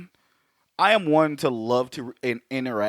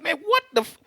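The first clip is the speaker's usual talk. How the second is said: mock shock. Imitating his shocked reaction.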